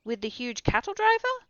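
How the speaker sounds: excited Axel. A narrator's reading. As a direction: get carried away with wonder. Axel's rising excitement.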